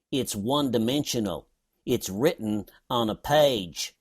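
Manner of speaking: sarcastic mimicry of the Kentucky guy; mocking quote. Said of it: "sense the gush of deep and guttural sarcasm".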